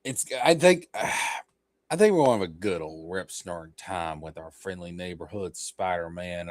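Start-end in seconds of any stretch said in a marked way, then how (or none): 1.9-6.5 a hint of good old Southern boy; Southern accent. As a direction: slip into a folksy Southern accent. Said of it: "I don't know why the Southern accent".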